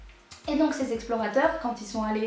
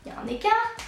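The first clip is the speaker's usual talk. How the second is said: high ironic rise; 8 semitones higher, faster than usual. Acted. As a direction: squeak the punchline up high. Punchline ironique. (aigu et ironique)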